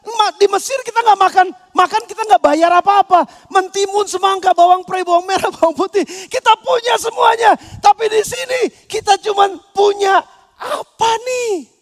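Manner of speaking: preacher voicing Israelites whining about manna; whining complaint. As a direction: list the food like a spoiled complainer. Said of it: "Tapi mereka".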